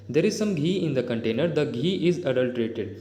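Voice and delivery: slow, deliberate reading of an English example; slow dictation-style reading. Shown as a demonstration. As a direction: read each word out clearly for the class. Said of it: "teacher reads example sentences slowly".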